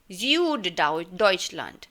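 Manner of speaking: Süddeutschland said very slowly, German ü and final t; slow German pronunciation. Shown as a demonstration. Teacher to students, slowly modelling the German word. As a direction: spell out Süddeutschland slowly for the class. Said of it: "Süd का मतलब होता है south".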